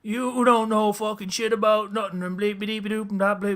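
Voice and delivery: high mock Newfoundland rant; garbled, hammed-up Newfoundland accent; hard Newfoundland accent. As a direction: imitate someone cursing in thick Newfoundland accent. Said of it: "like, hard accent".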